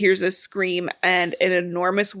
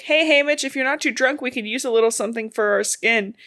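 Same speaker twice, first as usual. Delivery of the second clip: joking yell; 4 semitones higher than usual. Retold or imitated. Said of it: "she jokingly yells at this guy".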